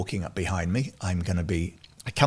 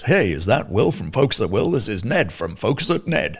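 put-on booming, swinging Boston accent; big Boston voice. Science advisor phoning the music service founder, big Boston accent. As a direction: imitate a hearty Boston caller. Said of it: "he has a big Boston voice and he goes".

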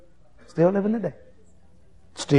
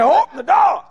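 high, loud shout for the door; preacher yelling at the guard to open the door; shouted call; 6 dB louder than usual. Retold or imitated. Calling out to guard.

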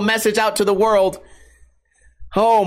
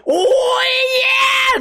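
mock party whoop. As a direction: squeal like the party's started. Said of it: "party balloons and explain, like".

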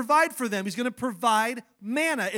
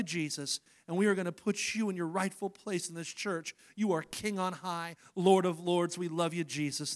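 prayer. Acted. Pastor leading the church in prayer, hushed and earnest. Pastor prays before the sermon.

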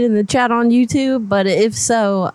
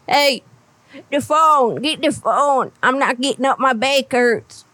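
grumpy grandpa calling out; 4 semitones higher than usual. Pretend. Old caller yelling for grandson.

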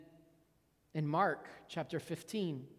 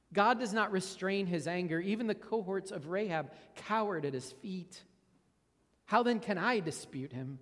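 scripture reading. Acted. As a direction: read it as Job's plea to God. Reads Job passage aloud.

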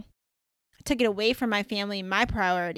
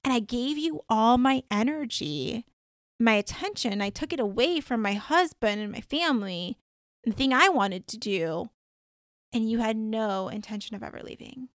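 retold annoyance, stressing word after word; annoyed reproach. Dreamer reproaching a woman who took her time, mildly annoyed. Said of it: "so annoyed in my dream".

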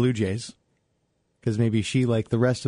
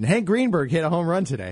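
sportscaster voice; 5 semitones higher than usual. Retold or imitated. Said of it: "I would be sure to mention".

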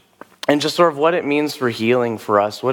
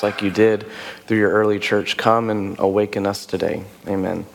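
prayer; 3 semitones lower than usual. Real, not acted. Leads the room in prayer.

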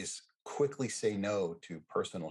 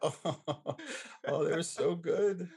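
excited rave; 9 semitones higher, much slower than usual. Real, not acted. Remembering the pies he dreams about, gushing slowly. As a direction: savour every word, thrilled.

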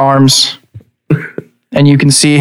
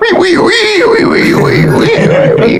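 high squealing wee wee wee; pig squeals. Acted. DM voices the happy pig squealing high. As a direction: squeal like an excited piglet.

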